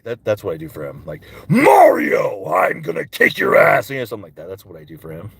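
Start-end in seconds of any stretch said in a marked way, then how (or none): 1.5-3.9 Bowser. Acted. Bowser threatening Mario, roar into growl. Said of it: "when I do Bowser".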